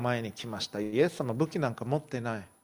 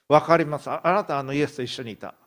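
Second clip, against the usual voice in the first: insistent accuser; 5 dB louder, faster than usual. Acted. Bystander accuses Peter.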